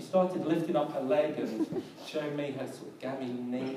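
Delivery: chuckling through the story; amused laughter over the knee; laughing. Real, not acted. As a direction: laugh while telling it. Laughing at the lady's gammy knee.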